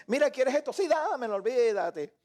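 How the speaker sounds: high, hammed-up eager agreement; giddy happiness. Happy person accepting whatever is offered, giddy. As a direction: say yes to everything, carried away. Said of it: "Estás feliz".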